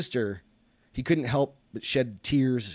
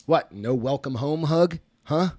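obnoxious; 4 semitones higher, 4 dB louder, slower than usual. A narrator's reading. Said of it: "obnoxious words".

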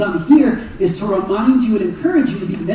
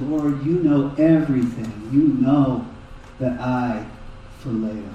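hushed humble reply; 9 semitones lower, 7 dB quieter than usual. Acted. Peter's humbled third answer.

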